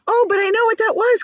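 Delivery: high, loud eager cry; excited cry. A narrator's reading. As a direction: burst out with recognition. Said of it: "cried James".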